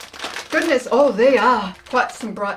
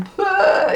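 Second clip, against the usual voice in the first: cinnamon cough spit; 8 semitones higher than usual. Retold or imitated. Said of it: "and then going".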